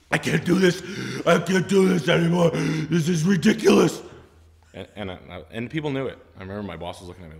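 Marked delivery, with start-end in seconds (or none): 0.1-4.0 the salesman at the end of his rope, in a high loud outburst; exasperated outburst. Retold or imitated. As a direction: let the frustration burst out. Breaking down at work.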